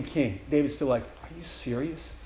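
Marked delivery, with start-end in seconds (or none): 1.0-2.1 hushed amazement at being chosen; stunned disbelief. Acted. David to God, amazed to be used, hushed.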